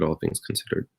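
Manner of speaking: breathy whispered afterthought; whispered aside. Real, not acted. Wry aside after feeling good.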